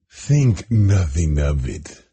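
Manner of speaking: slow, overly polite; exaggerated politeness. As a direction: lay the courtesy on thick. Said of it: "with exaggerated politeness".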